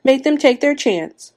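high, slow, loud demand; desperate yelled demand. A narrator's reading. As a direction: yell it out, dragging each word. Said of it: "Missus Hutchinson yelled".

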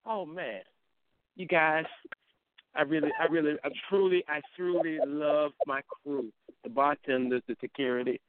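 lightly acted heartfelt gratitude; halting mock-touched thank-you speech; Ramsey. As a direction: stumble through an overcome thanks, slowing on the love. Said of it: "do your impression of Ramsey when he saw his cake".

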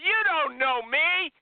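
mock offended. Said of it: "And she got mad".

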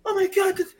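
high, frantic voice; panicked shrieking people. Retold or imitated. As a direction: shriek it like a shocked bystander. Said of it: "white people started going crazy".

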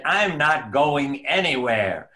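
slow, drawn-out insistence; retold firm refusal. Survivor answering her doctor's permission to go, firmly refusing. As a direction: retell it word by word, digging in. Patient's defiant reply, retold.

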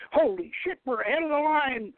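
high-pitched, urgent shout over the din; battle shout. Acted. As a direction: yell it over the noise of battle.

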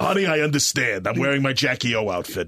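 lightly voiced freaky cartoon character; a hint of garbage disposal voice, coaxing a sweetheart; Doctor Girlfriend impression. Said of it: "Doctor Girlfriend".

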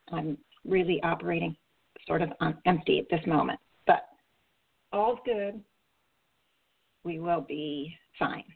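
tired, worn-out rusty voice; rusty unused voice. Real, not acted. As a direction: speak like a voice running on empty. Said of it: "Excuse my voice".

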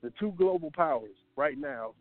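winded from climbing stairs; breathless, catching his breath. Real, not acted. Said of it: "sorry, I'm out of breath now".

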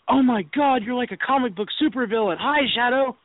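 high, gushing mock fangirl voice; mock Mercedes. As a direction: imitate her squealing with excitement. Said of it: "Mercedes turns around and goes".

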